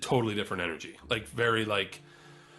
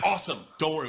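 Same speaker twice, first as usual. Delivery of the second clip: lightly imitated thrilled reassurance, higher voice; mock delighted welcome; 5 semitones higher, faster than usual. Gangsters through the roof greeting the machine, mock delighted. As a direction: welcome him like a new buddy.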